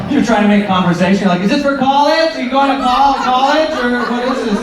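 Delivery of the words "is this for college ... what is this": higher, chirpy small-talk voice; mock eager customer. Customer making awkward small talk, pitched high. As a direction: play the keen awkward customer. Customer quizzing dancer, acted.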